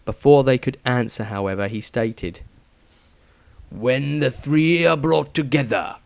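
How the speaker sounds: slow, menacing villain voice fading to a breathy end; slow dark sneer from a dying zealot; dying cultist. A narrator's reading. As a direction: gloat through the pain.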